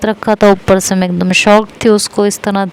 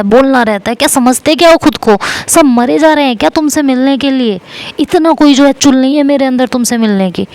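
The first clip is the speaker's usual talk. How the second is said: angry shouting; 3 semitones higher than usual. Retold or imitated. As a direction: tear into him, no pause for breath. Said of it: "ऐसे चिल्लाते हुए".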